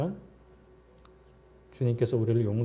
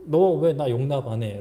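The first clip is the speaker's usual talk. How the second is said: mildly pushy, louder demand; 6 dB louder than usual. Acted. Believer pressuring another to forgive them, mock demanding. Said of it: "라고 이제 강요해서는".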